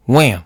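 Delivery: short, loud "wham"; spoken smack noise; imitated impact. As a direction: punch out a hit effect.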